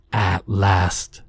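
creaking voice like groaning trees; creature voice. A narrator's reading. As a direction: speak like an old tree creaking. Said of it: "in a voice like groaning trees and snapped violin strings".

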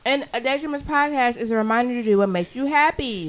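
talking through a mouthful; words round a bite of fish; mouth full of fish. Real, not acted. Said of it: "With a mouthful of fish".

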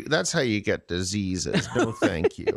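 put-on low old king voice. King Arthur character voice.

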